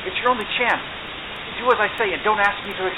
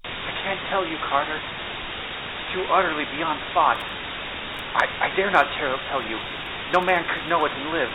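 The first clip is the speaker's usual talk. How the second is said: louder, horrified and fast; 2 semitones higher, 7 dB louder than usual. A narrator's reading. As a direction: gasp it out in horror. Horrified friend below ground.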